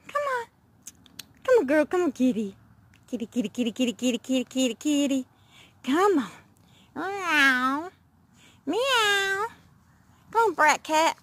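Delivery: high coaxing pet call; calling kitty. Real, not acted. Owner coaxing the cat to come, high and coaxing. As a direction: coax the kitty over.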